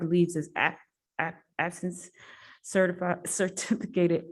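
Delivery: stumbling over words with new braces; tongue tripping on fresh braces. Real, not acted. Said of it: "I have new braces".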